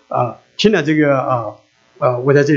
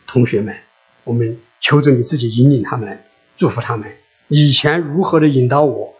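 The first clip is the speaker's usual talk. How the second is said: earnest prayer. Acted. Pastor praying a blessing over new students, in an earnest prayer voice.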